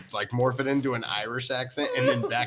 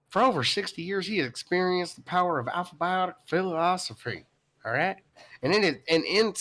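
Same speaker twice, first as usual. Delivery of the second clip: George W. impression; 6 semitones higher than usual. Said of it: "I'll give you more of a, like, uh, George W".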